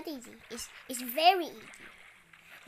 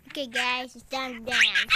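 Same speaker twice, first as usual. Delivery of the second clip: loud announcement; 9 dB louder than usual. Real, not acted. Announces to viewers.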